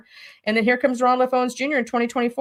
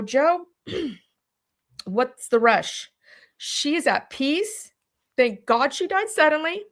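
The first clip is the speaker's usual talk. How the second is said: calm reassurance; 5 semitones higher than usual. Retold or imitated. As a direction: ease him down gently, no hurry. Calming brother about the rush.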